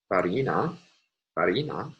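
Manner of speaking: "farina" with the middle syllable stressed; stress on second-to-last syllable. Shown as a demonstration. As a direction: say "farina" as Latin, leaning on the long "ri". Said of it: "fallen on the second to last syllable".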